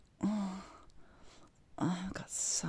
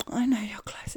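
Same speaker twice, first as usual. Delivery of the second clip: excited; 5 semitones higher, 9 dB louder than usual. Acted. Voiced take amid moans.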